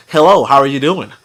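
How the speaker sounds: careful, standard phone voice; lightly imitated proper phone greeting; white American caller. Showing how a white person sounds on the phone, careful imitation. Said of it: "a white person would be like".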